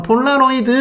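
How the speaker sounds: high, restrained crowd imitation; mock fan call. Audience calls out the request again.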